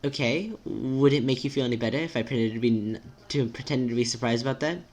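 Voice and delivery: careful, precise friend with a swooping tune; timid, formal friend. Acted. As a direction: reason it out politely and tentatively.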